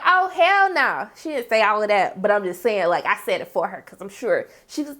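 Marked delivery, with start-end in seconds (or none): 0.1-1.1 high, slow outraged refusal; outraged mom. Retold or imitated. Maddie's mom refuses at the school, high slow outrage. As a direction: draw out the hell no. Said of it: "Her mom was like".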